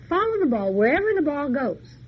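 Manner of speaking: a hint of a wise woman; commanding instruction. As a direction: spell out the magic rule. Woman instructs hero on trip.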